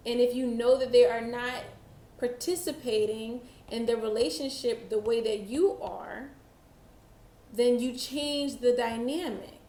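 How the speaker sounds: spaced out with long pauses; slow, halting delivery. Real, not acted. Reader passing on a channeled message, slow and halting. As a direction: let the message come out slowly, phrase by phrase. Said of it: "message is coming out so slow".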